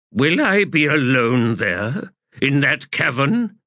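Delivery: fearful. Acted. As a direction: ask with sudden dread. Heboric's sudden fear.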